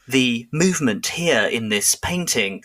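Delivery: slow, lightly voiced TV art historian; a hint of a pompous museum narrator, drawn out; art documentary presenter. Mocking a TV art series host, slowed and lightly voiced. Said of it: "walk around museums being like".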